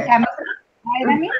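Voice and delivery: "Vitamins" with the T flapped, "vai-da-mins"; teacher models vitamins. Shown as a demonstration. Teacher models "Vitamins" for the student, flapped T. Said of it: "like when you're saying vitamins".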